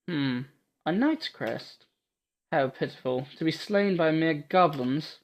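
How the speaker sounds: soft, slow Scottish musing; Scottish accent. Acted. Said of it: "Making her sound a bit Scottish".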